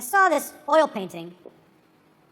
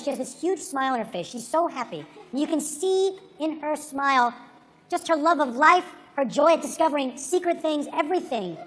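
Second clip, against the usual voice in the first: tender; 4 dB quieter than usual. Real, not acted. Tender words about his wife.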